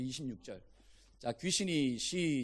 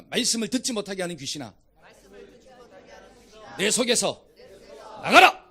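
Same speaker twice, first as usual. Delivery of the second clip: firm rebuke rising into an explosive order; commanding rebuke; 7 dB louder than usual. Shown as a demonstration. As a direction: lead the crowd, building to a full shout. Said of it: "한번 따라해봅시다".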